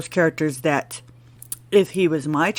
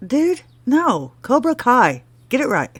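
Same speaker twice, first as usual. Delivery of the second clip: mock correction; 6 semitones higher than usual.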